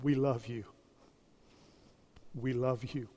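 pastor's farewell to his church, softly fading; sincere farewell. Real, not acted. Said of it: "my final sermon to you".

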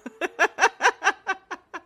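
high-pitched burst of laughter; high giggle. Real, not acted. Laughing at noisy interruptions.

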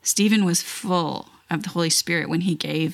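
unhurried prayer with thoughtful pauses; spoken prayer. Real, not acted. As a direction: pray aloud, pausing between phrases. Leads a prayer.

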